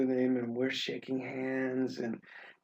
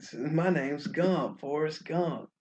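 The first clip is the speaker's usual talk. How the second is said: slow Southern drawl; 2 semitones higher than usual. Shown as a demonstration. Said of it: "They speak very slow".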